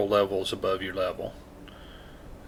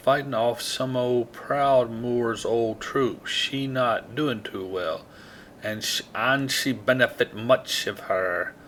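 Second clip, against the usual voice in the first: put-on terrible Jamaican accent. Player reading quest text aloud, badly faked Jamaican accent. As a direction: attempt a Jamaican lilt and miss. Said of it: "That's a terrible accent".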